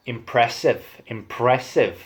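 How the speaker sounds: Irish accent. Shown as a demonstration.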